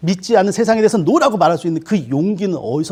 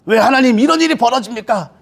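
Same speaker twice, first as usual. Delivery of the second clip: complaining to God; 5 semitones higher than usual. Retold or imitated. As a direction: hurl the why at God. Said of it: "하나님께 막 원망하고".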